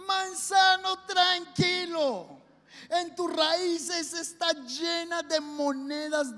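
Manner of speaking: muy lento y tranquilizador; calma exagerada. Acted. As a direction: alarga cada palabra para calmarlo. Holgazán calma al manzano. (el holgazán calma al manzano arrastrando las palabras)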